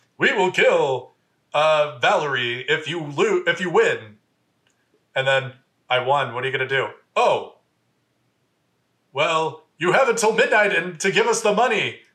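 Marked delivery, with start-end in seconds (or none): 0.2-4.2 put-on American announcer voice, much slower. Speaker retelling what the voice on the phone said, american announcer voice. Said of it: "American announcer voice going like".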